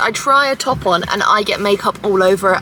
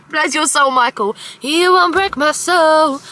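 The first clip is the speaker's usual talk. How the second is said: imitating Michael; 4 semitones higher than usual. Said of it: "That's Michael every time he sees me".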